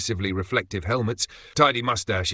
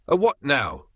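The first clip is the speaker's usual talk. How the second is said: confused; 6 semitones higher, 4 dB louder than usual. Acted. David confused by Latin name.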